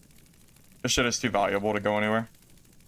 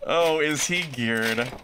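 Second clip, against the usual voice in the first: sarcastic drawn out question; 3 semitones higher, much slower than usual. Acted. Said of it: "repeats the question sarcastically".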